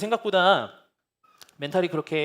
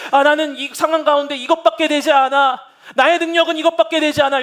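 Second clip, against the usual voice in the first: mock self-blame; 10 semitones higher, 13 dB louder than usual. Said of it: "자책하고 계시지 않으셨습니까".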